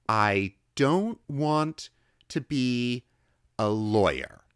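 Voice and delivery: put-on high, slow, careful boy's answer; careful child. A narrator's reading. Boy carefully answering the old woman. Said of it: "I told her carefully".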